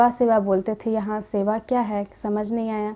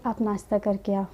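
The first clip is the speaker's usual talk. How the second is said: lovingly. Retold or imitated. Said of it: "अब बहुत प्यार से बोली वो।".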